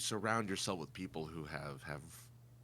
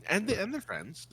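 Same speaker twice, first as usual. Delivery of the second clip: raised, louder insistent explaining; excited emphasis; 11 semitones higher, 9 dB louder than usual. Real, not acted. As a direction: spell the joke out, louder and higher. Explains the Friends joke emphatically.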